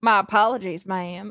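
put-on light, subtle Southern Texas accent, only hinted. Quoting a movie vampire's apology, in a subtle Texas accent. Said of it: "a Texas accent".

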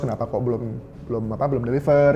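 plain

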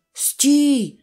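sharp commanding tone. A character in a story gives an order; commanding. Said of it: "скомандував Бухтик".

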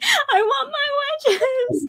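acted, very high, loud shrieking little-kid voice. Retelling pretending to be the kid while someone was on the phone, imitating a screaming kid. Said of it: "I was like screaming, pretending to be the kid".

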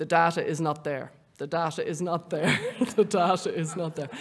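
dry, flat, level, expressionless deadpan. Retelling what a man said after being punched in the jaw, imitating someone deadpan. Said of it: "very kind of deadpan going".

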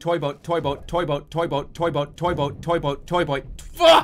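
very fast, rapid-fire repetition. Repeating a phrase ten times in a row, very fast. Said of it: "Say it very fast".

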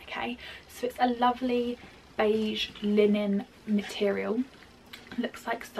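soft, hushed half-whisper under the breath. Showing a table runner to the audience, half-whispering without meaning to. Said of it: "I don't know why I'm whispering".

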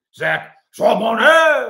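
French accent, very loud. Calling out a draft prospect's name: French accent. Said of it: "so I can use my French accent".

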